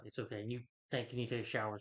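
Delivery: retold comforting. Aunt comforts upset Peter, retold.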